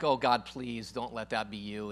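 low, hushed mock pleading; imitated reluctant plea. Believer dreading God's call, quietly pleading. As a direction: plead under your breath, low and soft. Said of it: "And you're like".

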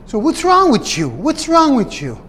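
high, put-on voice of a scornful coworker; mocking coworker.

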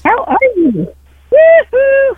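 high sultry caller greeting; sexy voice. Acted. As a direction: purr it up high, a bit hammy. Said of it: "I'm trying to put my sexy voice on".

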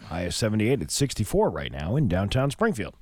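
upbeat announcer forecast voice; radio weather read. Acted.

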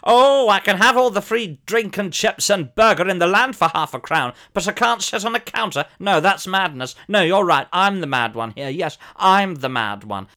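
loud, sarcastic rant; mock-outraged shout at the manager. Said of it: "and so I shout".

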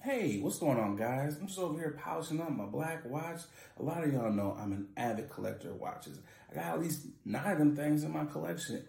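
easygoing host-read sponsor pitch; podcast ad read. Acted. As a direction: sell it casually to the listeners. Reads a sponsor ad.

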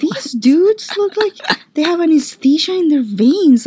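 high hushed whisper, slowed; whispered aside. Retold or imitated. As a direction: breathe it out like a secret. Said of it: "I was like".

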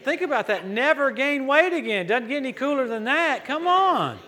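high, loud preacher's enthusiasm; thrilled, rising to a high "come on"; excited exhortation. Real, not acted. Preacher rousing the congregation.

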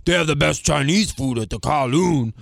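slowed-down, lightly voiced dad; imitated father. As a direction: proclaim it slowly, imitating a proud dad. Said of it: "my father would be like".

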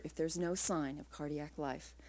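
slow, hushed and hard; hard whisper. A narrator's reading. Doctor refusing surgery at the bedside, slow hard hush. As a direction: press the words out low and firm. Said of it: "he said in a hard whisper".

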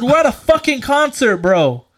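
loud, high exasperated yell; retold heated retort; confrontational. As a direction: tell him off like it's obvious.

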